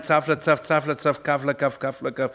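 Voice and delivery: monotonous nonsense-syllable patter; incomprehensible foreign babble. Acted. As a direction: recite gibberish in a steady rhythm. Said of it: "das Wort des Herrn für sie wird sein".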